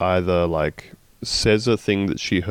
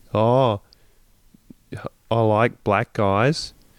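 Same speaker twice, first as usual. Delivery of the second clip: put-on Australian accent, pitched higher; 3 semitones higher than usual. Imitating Rebel Wilson in a Michael Bay movie: Rebel Wilson's Australian accent. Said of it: "there's Rebel Wilson going".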